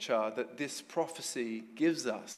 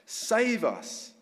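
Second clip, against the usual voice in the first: raised, higher, louder acclaim; praising the king; 7 semitones higher, 4 dB louder than usual. Retold or imitated. People praising their king, raised excited acclaim. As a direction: hail the king with it.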